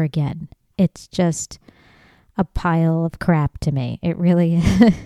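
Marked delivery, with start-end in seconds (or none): 4.0-4.9 laughing. Real, not acted. Laughing at own rant.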